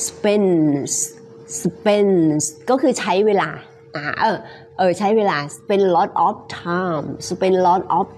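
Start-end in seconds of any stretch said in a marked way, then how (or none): 0.1-2.4 "spends" repeated with a clear closing S; each "spends" ends on a distinct S; final S sounded. Shown as a demonstration. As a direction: model "spends" slowly, S audible at the end. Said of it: "มีเสียง S นะคะ".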